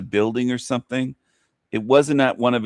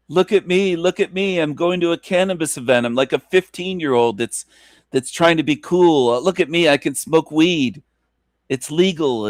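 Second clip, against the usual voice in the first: mocking impression; 4 semitones higher than usual. Mocking streamer in high voice.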